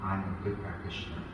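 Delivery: lightly voiced smug devotee, guru drawn out slowly; imitating a smug practitioner. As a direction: mimic a self-satisfied practitioner sizing you up, slowly. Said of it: "they talk just like that to you".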